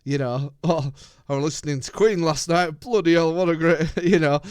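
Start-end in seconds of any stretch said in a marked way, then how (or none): 0.6-3.9 a jokey hammed-up American accent, a bit louder; mock American accent. Joking about American fans, hammed-up American accent. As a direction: put on a cheesy American fan voice. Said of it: "Here's American accents again".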